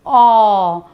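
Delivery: open-mouthed, drawn-out औ; teacher modelling औ for children; model vowel au. Shown as a demonstration. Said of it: "बोलिए मेरे साथ".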